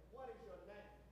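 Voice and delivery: hushed God asking Jacob; quiet question. Retold or imitated. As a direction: ask it gently with "What" in front. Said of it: "God is asking Jacob".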